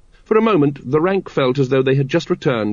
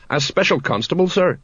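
embarrassed; 6 semitones higher than usual. A narrator's reading.

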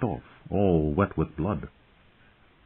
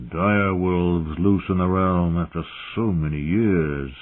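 slow gruff muttering; muttering old horsemaster; slower than usual. Acted. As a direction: mutter it darkly, slowly. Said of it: "muttered Hullen".

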